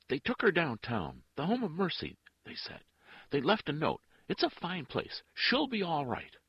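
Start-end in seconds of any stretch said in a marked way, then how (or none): 0.1-2.2 high, loud, anxious pleading; frightened answer. A narrator's reading. Woman tells an armed man where the baby went, frightened. 3.3-6.4 high, loud and pleading; anxious reassurance. A narrator's reading. Woman assures armed man the child is fine, frightened.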